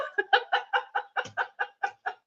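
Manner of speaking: long breathy laugh at herself; long giggle after the shriek; real laugh. Real, not acted. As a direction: laugh off the embarrassment. Laughing at her own freak-out.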